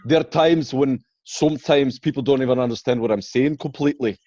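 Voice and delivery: thick, loud Scottish brogue; harsh Scottish accent. Shown as a demonstration. Joking that people can't follow him, thick Scottish accent. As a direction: lay the hard Scots on almost past understanding. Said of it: "the real harsh Scot-, Scot accent".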